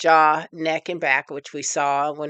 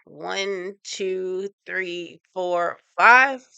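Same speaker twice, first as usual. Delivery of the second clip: counting hold; much slower than usual. Shown as a demonstration. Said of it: "Scrunch up your face".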